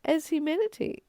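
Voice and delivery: high loud laughter around the words; laughing. Real, not acted. Teacher amused at her own wordplay, laughing. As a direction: laugh your way through it.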